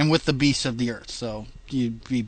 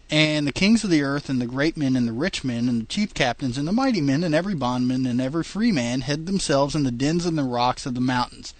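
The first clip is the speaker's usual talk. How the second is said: reading scripture aloud, steady and measured; King James reading; 2 semitones higher, 3 dB louder than usual. Acted. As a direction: read it like a Bible passage. Reads scripture dramatically.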